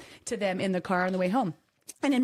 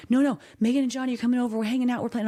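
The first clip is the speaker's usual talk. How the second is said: put-on protesting kid; 5 semitones higher, 3 dB louder, faster than usual. Kids protest bedtime in story.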